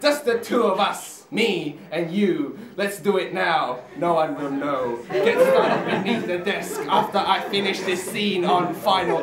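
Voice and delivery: spoken-word poem, measured and emphatic; poetry recitation. Acted. Poet performs a comic poem for an audience, declaimed. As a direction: recite it to a live crowd.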